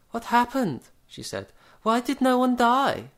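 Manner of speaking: high, loud frightened whisper-shout; high alarmed woman. A narrator's reading. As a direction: panic under your breath. Miss Bronwyn, alarmed.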